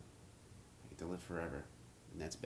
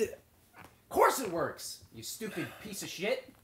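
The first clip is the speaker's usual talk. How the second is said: drawn out slowly; 4 semitones higher, 3 dB louder, much slower than usual. Acted. Character's drawn-out scolding.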